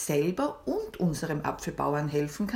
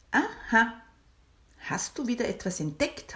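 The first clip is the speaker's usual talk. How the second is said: smiling; 5 semitones higher than usual. Acted. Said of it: "hat die Maya gelächelt".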